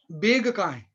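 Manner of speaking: Bhopali "beg" for "बैग"; imitated Bhopali vowel; Bhopali accent. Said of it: "तो बैग की जगह बोलेंगे".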